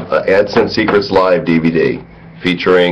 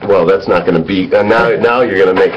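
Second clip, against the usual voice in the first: put-on a reluctant go at a British accent, pitched up; British accent, hesitant and playful; mock British accent; 3 semitones higher than usual. British accent for a British co-host who asked for it. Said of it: "Give me your British accent".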